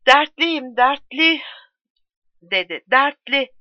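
on the edge of tears, pleading; tearful. A narrator's reading. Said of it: "Ağlamaklı bir sesle". (ağlamaklı, yüksek ve gür ses)

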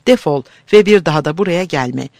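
loud, fast angry yell; furious shout. Acted. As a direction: drive him out shouting. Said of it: "yüzüne haykırmış".

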